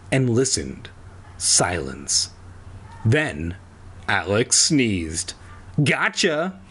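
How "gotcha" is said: higher-pitched "caught you" cry; triumphant cry. A narrator's reading. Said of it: "the woman cried".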